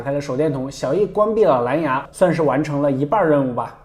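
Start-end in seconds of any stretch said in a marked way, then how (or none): none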